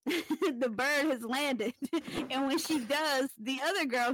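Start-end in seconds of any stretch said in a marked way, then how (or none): 0.1-1.7 the bird has landed said slowly, deliberately; slow botched code phrase. Retold or imitated. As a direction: drawl out the wrong code phrase. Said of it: "the bitch says".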